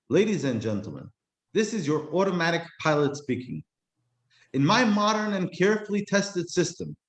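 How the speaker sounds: lightly voiced computer announcer; a stiff automated pilot reading to the cabin; hint of a machine voice; robotic announcement voice. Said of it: "computer-generated voice over the loudspeakers".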